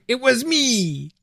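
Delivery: slow, quiet mock villain reveal; hammed-up villain confession, drawn out; slow theatrical villain menace. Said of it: "dramatic villain monologue time".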